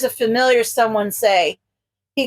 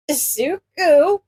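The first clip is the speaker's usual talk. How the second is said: holding back laughter; 4 semitones higher, slower than usual. A narrator's reading. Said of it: "barely holding it together".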